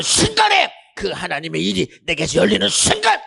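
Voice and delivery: high, shouted preaching in driving phrases; full-force preaching. Acted. Preacher telling congregation what gives life, full force. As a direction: pile up each clause at a high pitch.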